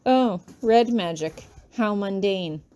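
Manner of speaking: nose held, stuffy and snooty; stuffy pompous voice. Retold or imitated. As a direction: pinch your nose and sound pompous. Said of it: "hold up my nose with one finger to make my sound so stuffy and pompous".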